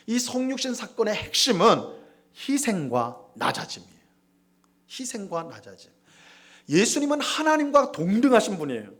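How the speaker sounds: rising, emphatic preacher cadence; preaching. Acted. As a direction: preach it to the congregation with weight. Preaching the doctrine part.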